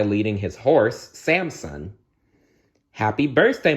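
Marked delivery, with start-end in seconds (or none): 2.9-3.7 calling warmly. Acted. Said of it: "he called with a big smile".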